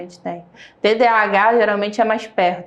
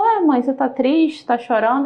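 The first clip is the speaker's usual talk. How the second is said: criança curiosa; 5 semitones higher than usual. Retold or imitated. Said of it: "E aí ele veio e falou".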